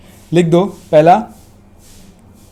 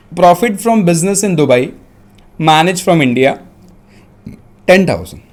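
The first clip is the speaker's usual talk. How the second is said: measured dictation with pauses; dictating; faster than usual. Real, not acted. Teacher dictating a question to students, dictation voice. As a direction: dictate phrase by phrase. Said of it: "मैं dictate कर रहा हूँ".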